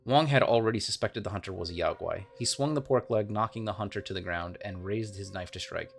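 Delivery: steady storytelling read of game lore; story narration. Acted. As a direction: tell it like a fireside tale. Reads game lore aloud.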